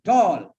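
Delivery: "Tall" alone, one loud falling beat; one-syllable demo. Shown as a demonstration. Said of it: "one sound only".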